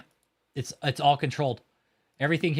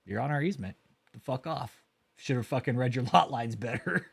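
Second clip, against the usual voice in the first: mock official; 4 dB quieter than usual. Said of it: "tex dot would be like".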